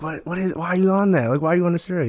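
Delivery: a hint of a small child asking why; imitating young daughter. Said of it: "my daughter's like".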